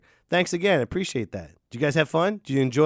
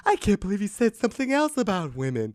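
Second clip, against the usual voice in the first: mock shock; 7 semitones higher than usual.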